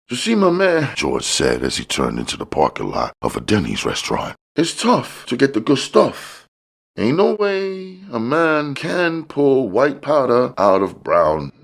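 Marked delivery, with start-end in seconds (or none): 0.1-1.0 high, smooth hustler voice; a pitched-up, easygoing street dealer bragging; high-voiced dealer showing off; George, slick dealer. George speaks in story. 4.6-11.5 high, smooth hustler voice; a pitched-up, easygoing street dealer bragging; high-voiced dealer showing off; George, slick dealer. George speaks in story.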